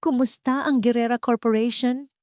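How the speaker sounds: a touch of CEO authority; direct question. A narrator's reading. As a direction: cut straight to business like a CEO. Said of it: "diretsong tanong ni Matthew".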